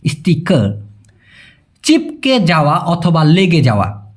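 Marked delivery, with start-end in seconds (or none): 0.1-0.8 স্টিকার as a lone "is-ti-ka", no final r; স্টিকার with the r left silent; Malay pronunciation. Shown as a demonstration. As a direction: model স্টিকার lower, ending on an open vowel. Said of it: "ওরা বলে তামপাল স্টিকার".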